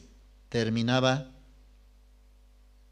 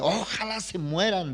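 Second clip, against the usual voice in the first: plain; 4 semitones higher than usual. Retold or imitated. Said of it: "Ella decía".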